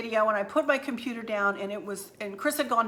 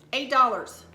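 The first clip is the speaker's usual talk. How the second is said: amazed at the price; 3 semitones higher, 4 dB louder than usual. Real, not acted. Showing viewers a cheap tablecloth, amazed. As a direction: relish the bargain.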